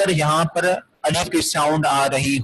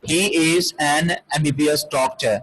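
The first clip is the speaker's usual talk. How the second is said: slow model sentence; much slower than usual. Shown as a demonstration. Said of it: "Like we can say".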